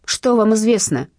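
slow, loud bark of a question. A narrator's reading. Cornered Katya barks at the blackmailer on the phone, loud and slow. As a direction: snap it at the blackmailer. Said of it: "рявкнула я".

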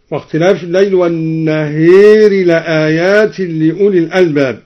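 والنهير with the long ā leaned toward ē; imāla on al-nahār. Shown as a demonstration. Teacher showing imāla on والنهير in recitation. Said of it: "وأمال النهار".

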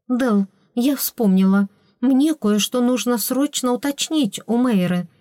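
flustered babbling. Acted. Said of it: "залепетала".

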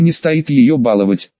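ordinary delivery, nothing marked

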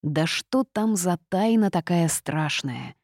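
ordinary delivery, nothing marked

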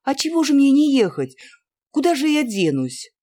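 put-on girl crying out to her father. A narrator's reading. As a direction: protest in shocked disbelief. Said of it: "вскричала девочка".

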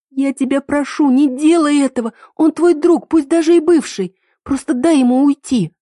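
high, loud, frantic begging; a panicked girl begging her lover not to shoot; desperate pleading. Acted. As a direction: plead with him to let the man go. Heroine begs him to drop gun.

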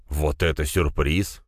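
put-on slow drunken drawl; dead drunk. A narrator's reading. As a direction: drag it out like a heavy drunk. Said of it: "нахмурился бухой в хлам чугун".

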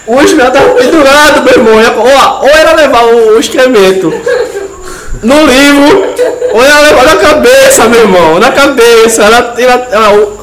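excited retelling. Real, not acted.

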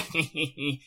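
soft, scornful chuckle; short mocking laugh. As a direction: laugh at her contempt. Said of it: "усмехнулась Аланис". (короткий насмешливый смешок)

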